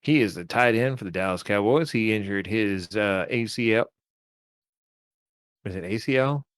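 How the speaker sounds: a lightly put-on Texas twang, half-joking; Texas accent. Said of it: "Does it sound like a Texas accent".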